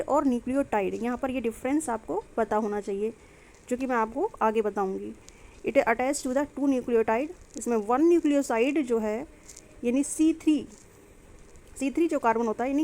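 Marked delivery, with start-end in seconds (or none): 5.7-7.3 very slow, word by word; dictating notes. Shown as a demonstration. Teacher dictating a note to her students, very slow and deliberate. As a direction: spell it out so students can write it down.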